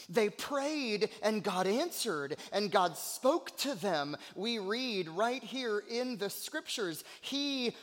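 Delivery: emphatic sermon delivery; fervent preaching. Real, not acted. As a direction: preach it with conviction. Preaches with force.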